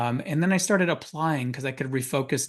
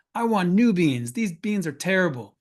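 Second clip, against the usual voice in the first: mock angry customer; 4 semitones higher, 3 dB louder than usual. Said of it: "he was bullying her".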